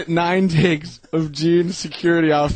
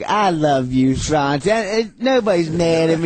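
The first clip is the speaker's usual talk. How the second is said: put-on lovey-dovey drunk. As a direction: imitate a sappy, affectionate drunk. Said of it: "he always gets all lovey-dovey".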